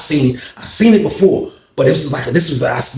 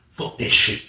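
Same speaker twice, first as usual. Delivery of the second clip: muttered whisper; 7 dB quieter, slower than usual. Retold or imitated. Quiet resigned decision.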